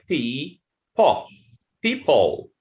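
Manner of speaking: "people" slowly split as pee, puh, then joined; syllable by syllable, then whole. Shown as a demonstration. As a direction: show the unstressed "uh" in "people". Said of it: "pronounced as an a".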